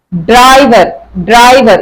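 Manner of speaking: "ड्राइवर" with force on the opening ड्र; forceful र. Shown as a demonstration. Teacher asks students to hear the difference, forceful र. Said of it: "इसमें force दे रहे हैं हम".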